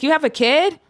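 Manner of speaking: high, startled question; surprised. Retold or imitated. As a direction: blurt it out in shock. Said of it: "He's like".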